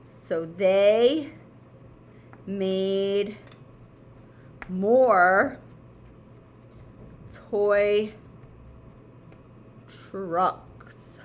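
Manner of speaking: each word said slowly apart with long pauses; spelling it out. Shown as a demonstration. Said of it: "slow word-by-word answer".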